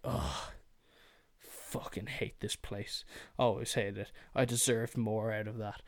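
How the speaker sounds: mock a resentful ex-student; a lightly voiced bitter mutter; mock bitter grumble. Mocking grudge-holders.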